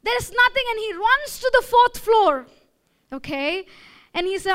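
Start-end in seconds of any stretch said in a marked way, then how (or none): 0.0-0.6 a jilted job seeker wailing about his life; distraught. Retold or imitated. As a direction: pour out hammed-up despair. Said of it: "this guy got so emotional".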